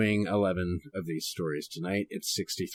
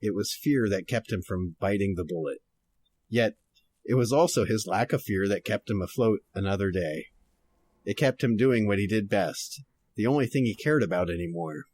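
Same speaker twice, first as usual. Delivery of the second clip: noir detective. Shown as a demonstration. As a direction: read it like an old detective radio drama. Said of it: "going to try to read this kind of noir-ish".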